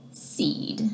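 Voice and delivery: whispered. Acted. Hushed word at rhyme's end.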